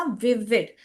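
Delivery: teacher demonstrating how विविड is said; pronunciation demo of विविड. Shown as a demonstration. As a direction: say विविड clearly as a model. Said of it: "इसको कैसे pronounce करने का?".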